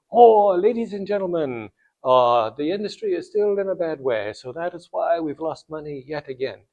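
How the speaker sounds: lightly put-on French CEO accent. French CEO walks back into the boardroom, French accent. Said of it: "I will do my French accent".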